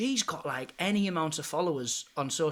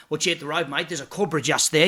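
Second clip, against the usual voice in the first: Steve Irwin; 6 dB louder than usual. Retold or imitated. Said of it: "I used to do Steve Irwin".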